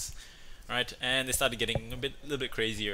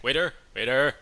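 louder, pompous demand; indignant customer; 3 semitones higher, 7 dB louder than usual. Retold or imitated. Husband demanding an explanation from the waiter. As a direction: call the waiter like you're owed an answer. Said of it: "He's like".

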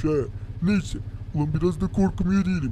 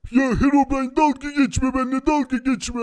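higher-pitched playful protest; mildly exasperated plea; whiny protest; 4 semitones higher than usual. Pretend. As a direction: complain at being teased. Protesting at rival's taunts.

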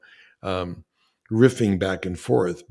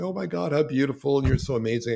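a light imitation of gushing fans, starting higher; 4 semitones higher, faster than usual. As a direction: mildly mimic a gushing fan after a screening. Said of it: "they're gushing and they're crying".

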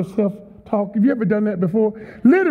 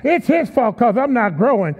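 whining churchgoer. Retold or imitated. Preacher mimicking a churchgoer blaming him, mock whine. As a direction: sulk about the pastor. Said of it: "they'll even come to church".

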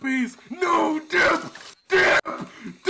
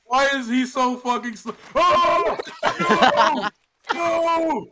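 panicked yelling; slower than usual. Real, not acted. Yelling while chased.

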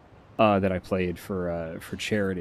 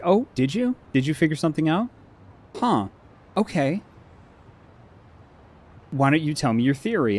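high teasing sing-song, imitating Ryan; mocking Ryan; 5 semitones higher than usual. Friend mocking his guess with high teasing curiosity. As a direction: tease him in a high mock-curious voice. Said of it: "Ryan was like".

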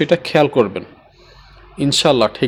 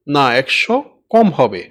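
slow teaching; slower than usual. Shown as a demonstration. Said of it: "এভাবে আপনারা বুঝাবেন".

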